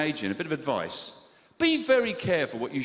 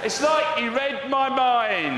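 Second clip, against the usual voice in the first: sarcastic; 8 semitones higher, 5 dB louder, much slower than usual. Acted. Sarcastic loud exclamation.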